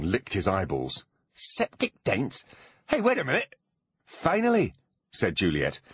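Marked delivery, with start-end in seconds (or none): 1.3-3.5 dawning suspicion, creature voice; goblin voice. A narrator's reading. Goblin slowly realising. 4.0-4.7 high, exasperated relief. A narrator's reading. Juliet exasperated.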